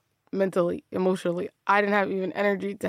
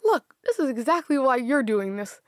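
inner villain; 6 semitones higher than usual. Retold or imitated. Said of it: "the villain in my head is like".

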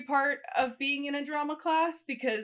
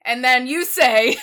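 prompting a classmate; 11 dB louder than usual. Retold or imitated. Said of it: "being like".

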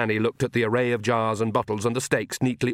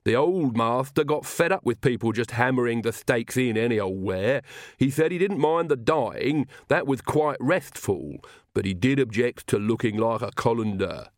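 lisping loyal retainer; lisping servant Igor, earnest. Acted. Igor explains the old master's complaint, earnest lisp.

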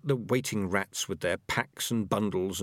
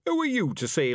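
growled challenge, raised pitch; sharp; 10 semitones higher, 4 dB louder than usual. A narrator's reading. Ham and Pork challenges young Peaches, sharp and growling. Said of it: "he said sharply".

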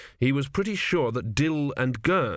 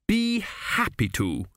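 gracious; 10 semitones higher, slower than usual. Acted. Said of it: "said the king graciously".

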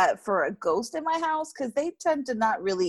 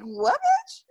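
mock tough. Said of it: "the look of fear in her face was like".

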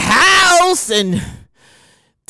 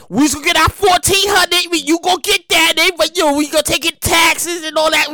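hyped cheer; 4 semitones higher than usual. Acted. Direct deposit cheering Joe on, hyped-up shout. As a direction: shout it like money just landed.

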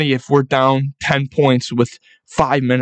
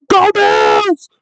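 put-on much higher, loud drunken shout; drunk stadium yell; 4 dB louder than usual. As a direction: scream it from the top section. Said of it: "I'm yelling up".

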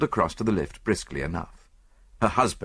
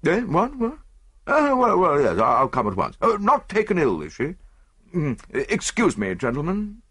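flustered husband; 8 semitones higher than usual. Acted. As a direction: react with alarm, then hurriedly excuse yourself. Husband startled by page's message.

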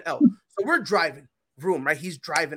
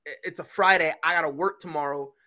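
scared pleading; 2 semitones lower than usual. Retold or imitated. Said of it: "I was like".

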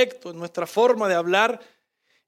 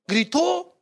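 shouted; 5 semitones higher than usual. Shown as a demonstration. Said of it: "Jesús gritó".

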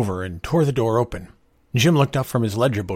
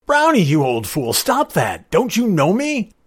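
raised, loud scolding shout; 10 semitones higher, 6 dB louder than usual. A narrator's reading. Young man to the dog attacking him, shouting. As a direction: shout commands at a charging dog. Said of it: "George shouted".

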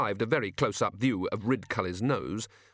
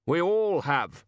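short; 6 semitones higher, 3 dB louder, slower than usual. A narrator's reading. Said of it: "said the Arch-Chancellor shortly".

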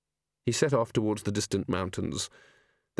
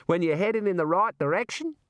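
higher, sly kangaroo; bouncy kangaroo voice; 7 semitones higher than usual. Acted. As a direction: tease him along. Kangaroo speaks.

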